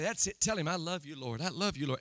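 low, soft confiding prompt; in their ear. Retold or imitated. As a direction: coach them privately, voice dropped. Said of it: "I'll get in their ear and say".

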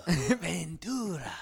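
slow laughing echo. Real, not acted. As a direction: draw it out, laughing.

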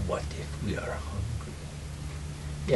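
slow hushed gurgling monster; menacing gurgle, slow and soft; watery creature voice. Acted. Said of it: "watery voice".

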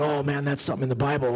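quick mocking repeat; mocking crew. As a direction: tease it like the laughing crew. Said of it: "I hear people going".

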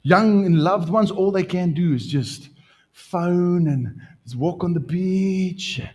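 usual speaking voice

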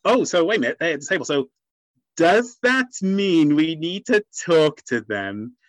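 slow, condescending mock voice; patronising mock voice. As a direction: talk down like to a baby. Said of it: "It overplays a label".

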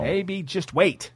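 drawn-out, tentative plea; restrained plea. Acted. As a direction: hold back and gently urge waiting. Mock plea to filmmaker.

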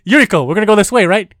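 high, loud mock Japanese-girl voice; little Japanese girl. Host teasingly imitates co-host, mock little Japanese girl. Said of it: "like a little Japanese girl".

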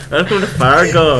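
put-on Fargo-style Minnesota accent. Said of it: "I don't think I sound Irish".

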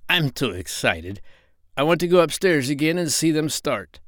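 a hint of a squeaky pig; eager little pig; lightly voiced excited piglet. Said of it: "said Gub Gub".

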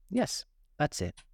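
a touch of weary sighing. A narrator's reading. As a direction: answer slowly with a mild sigh. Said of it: "said the Hatter with a sigh".

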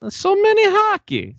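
put-on high, loud, slow Russian accent; drawn-out hammy Russian accent. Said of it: "if you say it in a Russian accent".

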